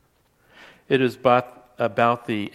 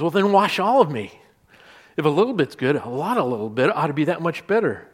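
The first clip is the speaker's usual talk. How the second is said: eager quoted outburst, pitched up and louder at the start; Peter; 3 semitones higher, 4 dB louder than usual. Retold or imitated. Preacher quoting a disciple's reaction to foot washing, eager. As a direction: jump in higher, mock over-eager. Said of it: "you gotta love Peter's reaction. ... He says".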